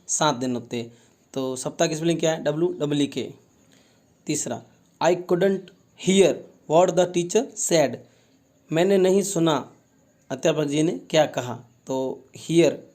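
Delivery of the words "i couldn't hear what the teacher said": slow reading aloud. Shown as a demonstration. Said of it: "teacher reads sentence slowly".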